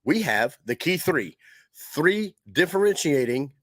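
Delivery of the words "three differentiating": said slowly. Real, not acted. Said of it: "I have to say that kinda slow every time".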